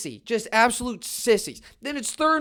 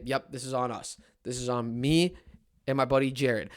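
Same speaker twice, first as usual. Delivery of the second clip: mock apology; 9 semitones lower, 7 dB quieter than usual.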